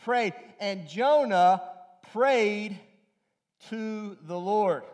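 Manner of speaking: preacher slowing to underline prayed; stress on prayed. Shown as a demonstration. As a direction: lean hard on prayed, slow and deliberate. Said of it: "it uses the word".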